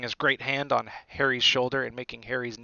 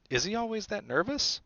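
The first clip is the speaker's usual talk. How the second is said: put-on higher, boyish question; young Harry; 8 semitones higher than usual. A narrator's reading. Harry asking Hagrid about the teacher, higher boyish voice. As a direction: ask curiously, pitch climbing.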